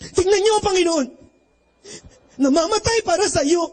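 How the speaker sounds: a touch of a stirring passion-play announcer; dramatic announcer. Retold or imitated. Priest imitating the Batangas announcer, dramatic and stirring. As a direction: sell it like the announcer moving the crowd. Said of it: "sabi nung announcer".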